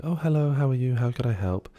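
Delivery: put-on very nice voice. Retelling how the woman behind the desk greets a guest: imitating a very nice greeting. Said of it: "very nice greeting".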